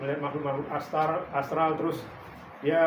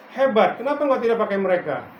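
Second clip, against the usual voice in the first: louder, higher naive question; innocent protest; 4 semitones higher, 7 dB louder than usual. Retold or imitated. The pastor naively asks God why, louder. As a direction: ask God innocently but loudly. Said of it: "dengan polos ngomong begitu".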